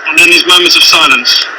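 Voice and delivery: muffled behind a gas mask; through a gas mask. Real, not acted. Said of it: "I'm now wearing a gas mask".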